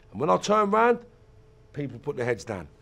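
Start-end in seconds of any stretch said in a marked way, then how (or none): none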